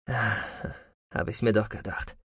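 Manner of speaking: quietly pleased at his discovery; satisfied. A narrator's reading. Ferark finds the escape route on the plan, quietly satisfied. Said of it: "sagte er schließlich zufrieden".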